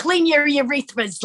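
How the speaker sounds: put-on Brooklyn accent. Riffing with a partner, the speaker slips into a brooklyn accent. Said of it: "immediately it's like a Brooklyn voice".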